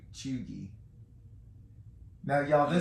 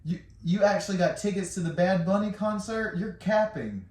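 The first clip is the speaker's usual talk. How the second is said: ironic zoomer; 4 semitones higher than usual. Acted. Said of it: "I'm reading like a Gen Z".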